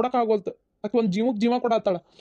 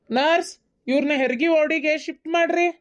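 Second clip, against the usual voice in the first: calling orders; 5 semitones higher, slower than usual. Acted. Doctor calls orders to nurse.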